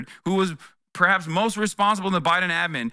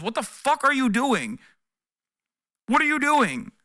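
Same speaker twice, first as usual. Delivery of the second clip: incredulous yell; 8 semitones higher than usual. Retold or imitated. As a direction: shout at him in disbelief. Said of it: "And then everybody goes".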